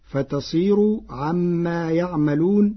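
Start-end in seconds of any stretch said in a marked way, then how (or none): 1.1-2.7 "عما يعملون" with ya instead of ta, slow; ya reading. Shown as a demonstration. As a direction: start "يعملون" with ya. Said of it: "بياء الغيب".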